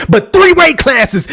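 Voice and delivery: lightly imitated wrestler's announcement; Booker T. Hyping a boxer's move up in weight, hint of a wrestler impression. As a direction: punch out the number like a wrestler. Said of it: "in my Booker T voice".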